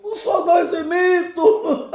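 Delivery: high-pitched comic protest; Jesus esbravejando. Retold or imitated. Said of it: "Jesus começava a esbravejar". (negação indignada, em tom cômico)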